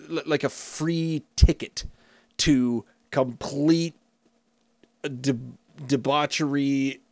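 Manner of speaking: slow, drawn-out disbelieving question; a mildly mocking, unhurried what-is-the-point question; incredulous question. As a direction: ask it slowly, baffled by the whole idea. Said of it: "And I thought".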